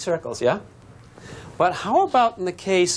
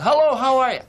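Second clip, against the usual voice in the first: someone calling hello; 11 semitones higher, 4 dB louder than usual. Acted. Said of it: "someone says".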